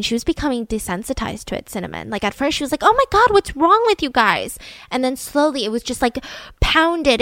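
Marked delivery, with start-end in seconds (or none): 2.8-4.6 high-pitched mock outrage, slowing at the end; imitated incredulous exclamation; retold shocked disbelief. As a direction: act out a teen appalled at the adults. Daughter's retold shocked first reaction.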